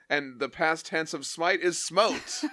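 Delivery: pedantic correction. Acted. Host reads the Surfer correcting Ben Grimm, pedantic. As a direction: spell it out grandly, drawing it out.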